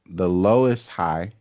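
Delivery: "lowest" stretched and stressed, slow. Shown as a demonstration. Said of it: "I know I'm emphasizing".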